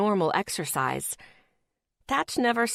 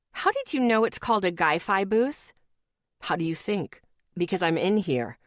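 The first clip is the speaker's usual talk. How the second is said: lightly voiced boyfriend; 3 semitones lower than usual. Boyfriend teasing on phone.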